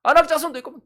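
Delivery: imitated crowd complaint, mounting; mock complaining. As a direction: act out grumbling that builds to an outcry. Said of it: "하나님 원망하면서".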